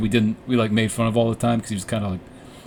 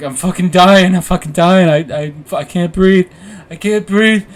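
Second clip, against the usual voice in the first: high, loud, hammed-up freak-out; imitated panicked screaming; 7 semitones higher, 10 dB louder than usual. Storyteller imitating a too-high friend, panicked screaming. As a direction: mimic someone screaming that he can't get air. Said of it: "screaming out".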